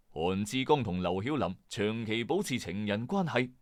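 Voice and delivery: plain reading voice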